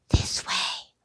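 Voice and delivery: hushed whisper in the dark; sneaky thief's whisper. Acted. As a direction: whisper to a partner in crime. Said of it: "a voice whispered".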